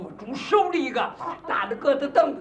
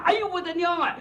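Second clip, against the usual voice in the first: mock fright; 5 semitones higher than usual. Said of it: "可把我吓坏了".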